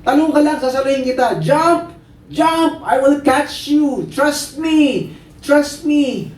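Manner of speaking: high, insistent shouts; acted pleading commands, punched out one by one; urging father. Father telling trapped child to jump, urgent shouting.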